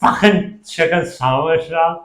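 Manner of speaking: playful attempt at Scouse; Scouse accent. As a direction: have a go at a Liverpool accent. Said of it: "every time you do a Scouse".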